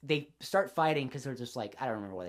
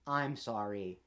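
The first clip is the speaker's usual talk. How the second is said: much softer, lower meek little sorry; meek apology; 7 semitones lower, 8 dB quieter, much slower than usual. Retold or imitated. Woman apologizing to the guy, meek soft sorry. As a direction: shrink into a timid apology. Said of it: "the woman's like".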